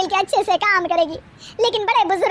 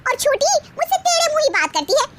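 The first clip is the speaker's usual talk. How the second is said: whiny complaint; 3 semitones higher than usual. Acted. Middle bahu complaining.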